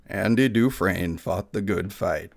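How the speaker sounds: slow, low lightly done Morgan Freeman; a modest Morgan Freeman try. Acted. Streamer attempts Morgan Freeman for the narrator figure, slow and low. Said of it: "He should sound like Morgan Freeman".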